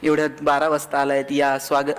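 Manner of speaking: low, ironic welcome home; mock loving welcome. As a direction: play a fondly welcoming wife, tongue in cheek. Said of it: "बायको प्रेमानं दार उघडेल".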